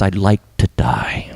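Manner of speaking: slow, low, hushed resignation; subdued retold death wish; retold despair. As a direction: voice Jonah giving up, low and slow. Retells Jonah giving up.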